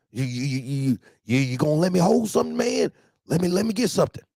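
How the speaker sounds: high, fast wheedling plea; caller begging. Retold or imitated. Driver asks the boss for cash, high fast wheedle. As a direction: hurry the ask like a broke hustler.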